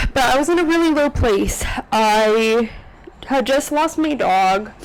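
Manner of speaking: tearful, voice lifting with grief; choked up, trying to keep talking; holding back real tears. Real, not acted. Vlogger recalling losing her dog, tearful. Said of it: "why the heck am I crying already".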